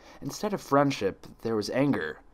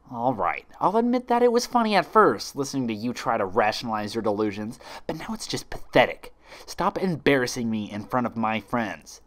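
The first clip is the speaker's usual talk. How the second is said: contemptuous sneer. Acted. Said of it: "The other Twilight groaned".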